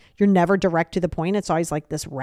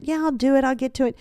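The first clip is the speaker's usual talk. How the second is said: higher-pitched, noncommittal brush-off; passive aggressive; 5 semitones higher than usual. Retold or imitated. Procrastinator dodging an agreed task, passive aggressive. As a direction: lift the pitch and put them off. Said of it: "That is very passive aggressive".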